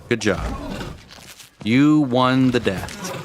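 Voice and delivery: mock scolding. Mock scolding chat after death.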